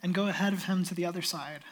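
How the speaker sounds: steady, measured Bible reading; calm reading of the Gospel to the church; scripture reading. Acted. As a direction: read the passage clearly to the congregation. Reads the Gospel passage aloud.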